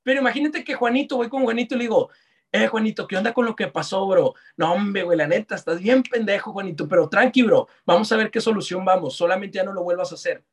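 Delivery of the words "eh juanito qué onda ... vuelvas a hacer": lower, relaxed buddy tone; friendly and calm. Shown as a demonstration. Coach showing a leader calming a worker, friendly and low. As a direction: reassure him like a friend, easygoing. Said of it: "Es diferente".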